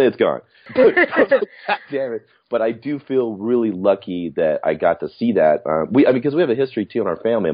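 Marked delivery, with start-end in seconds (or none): 0.7-2.3 slow, higher laughing curse; laughing frustration. Real, not acted. Missing every scene, slow laughing curse. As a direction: laugh it off in mock dismay.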